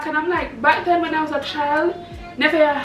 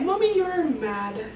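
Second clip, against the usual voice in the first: put-on hurt little girl; 3 semitones higher, 4 dB quieter, slower than usual. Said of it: "And she was like".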